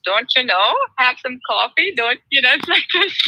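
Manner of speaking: put-on playful Minnesotan accent on long vowels; Minnesota church mom. Guest imitating friends who play church moms on Instagram, Minnesota accent. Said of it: "like, Minnesota church moms".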